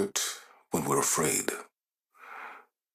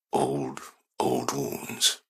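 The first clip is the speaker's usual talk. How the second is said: words catching on a sob; a touch of tears; voice breaking; 3 semitones lower, much slower than usual. Acted. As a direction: let the voice crack on old. Voice breaks recalling lost people.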